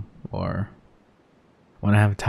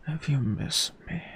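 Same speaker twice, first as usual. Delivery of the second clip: right in your ear; 7 semitones higher, 4 dB quieter than usual. Acted. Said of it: "whispering in your ear".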